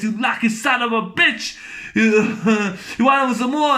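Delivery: mock angry taunt, rising in pitch; hammed-up angry challenge with a laugh; pissed-off movie quote. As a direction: goad him like an angry villain. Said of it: "gets pissed".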